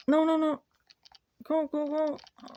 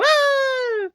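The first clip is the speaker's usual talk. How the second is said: startled whoa; 8 semitones higher, 5 dB louder than usual. Real, not acted. Sudden shock in game.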